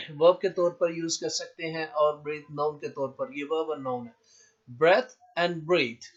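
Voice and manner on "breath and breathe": Breath with short e, breathe with long ee; pronunciation demo. Shown as a demonstration. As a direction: slowly contrast Breath and breathe. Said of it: "pronunciation देखें".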